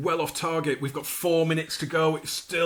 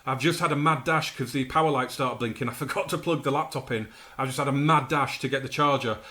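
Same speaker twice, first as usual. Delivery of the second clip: out of breath. Real, not acted. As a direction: still breathless, catching air. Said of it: "I'm out of breath".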